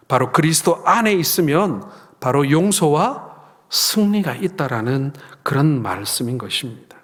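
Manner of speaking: ordinary delivery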